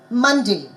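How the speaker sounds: "Monday" with the first syllable stronger; stressed syllable demo. Shown as a demonstration. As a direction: lean on MON in "Monday". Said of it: "I'm reading out the words".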